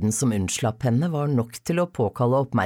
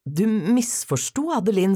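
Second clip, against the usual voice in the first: firm; 6 semitones higher than usual. A narrator's reading. Father correcting his accusing daughter, firmly. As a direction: state it firmly and deliberately. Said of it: "sa han bestemt".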